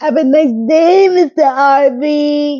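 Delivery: put-on high, slow Thai accent. Retelling a woman's goodbye to Mister Harvey: Bangkok accent. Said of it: "in her Bangkok voice".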